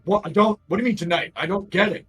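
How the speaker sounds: high, loud, hurried confusion; baffled guy. Acted. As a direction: splutter it fast, totally lost. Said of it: "He's like".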